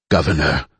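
low raspy call; rasped. Acted. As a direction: rasp the word out weakly. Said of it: "Rajka rasped".

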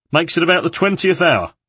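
lightly voiced old lamplighter; a hint of a squinting old workman.

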